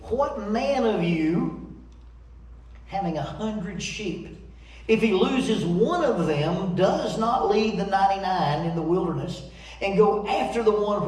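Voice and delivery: preacher reading scripture aloud. Acted. Reads the parable aloud.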